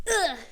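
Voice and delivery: mock angry grunt. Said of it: "angrily walking out".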